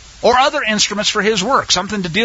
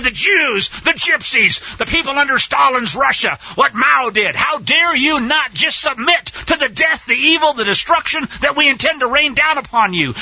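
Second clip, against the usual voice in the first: raised, higher, indignant mock accusers, pitch climbing; 4 semitones higher than usual. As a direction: sneer their outrage back at the congregation. Preacher voices the godless accusers.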